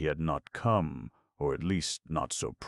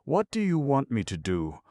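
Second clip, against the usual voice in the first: a mournful ask that lifts much higher; asked sadly; 10 semitones higher, 4 dB louder than usual. A narrator's reading. Olivia asks Michael, higher and sadly. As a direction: let the sadness pitch it up high. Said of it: "She asked sadly".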